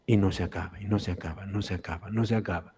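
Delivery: soft, hushed repetition of amazement; hushed wonder. Acted. Marvel at endless bread. (en voz baja, asombrado)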